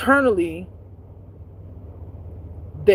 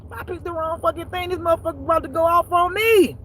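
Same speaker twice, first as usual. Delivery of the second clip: nervous thought; 11 semitones higher than usual. Retold or imitated. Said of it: "I was a little scared".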